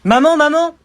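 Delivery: high, loud, frantic calls; loud cries for mum; panicked yelling. Acted. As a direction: shout for mum in alarm. Child calls mum after the slap.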